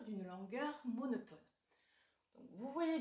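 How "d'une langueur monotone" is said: slow, lingering verse reading; poem recitation. Shown as a demonstration. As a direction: recite it slowly, letting the vowels sound long. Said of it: "Je vous donne l'exemple bien connu de Verlaine". (lecture de poème lente et mélancolique)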